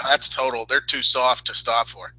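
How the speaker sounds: put-on a touch of New York accent, slowed. Mocking the wrestlers as they walk by, a touch of New York accent. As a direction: drawl it lightly like a New Yorker. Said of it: "Why did I just go into New York?".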